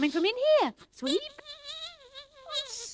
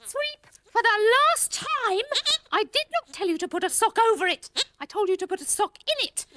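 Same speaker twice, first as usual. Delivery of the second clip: stern scolding; 3 dB louder than usual. Acted. Scolding Sweep about the sock. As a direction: lay down the law firmly.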